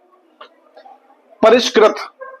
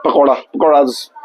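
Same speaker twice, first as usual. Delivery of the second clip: slow English demo; 5 semitones lower, slower than usual. Retold or imitated. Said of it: "बोल सकते हो कि".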